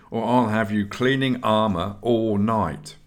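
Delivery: a mild warning tone; understated warning to the aspirant. Acted. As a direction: caution him, lightly stern. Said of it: "he added warningly".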